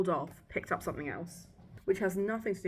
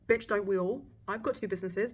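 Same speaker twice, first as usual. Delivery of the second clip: sassy; 3 semitones higher, 4 dB louder than usual. Real, not acted. Sassy retort.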